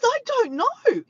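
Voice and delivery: high, drawn-out mock wail; slow, high-pitched mimicked protest; imitated exasperation. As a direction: stretch it out like someone fed up. Retold exasperated answer.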